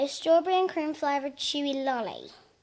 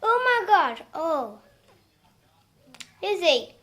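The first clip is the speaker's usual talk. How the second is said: shocked yelp at the fizz; loud startled cry, pitch shooting up; fizzy soda tingle; 6 semitones higher, 7 dB louder than usual. Real, not acted. Fizzy sweet hits the tongue.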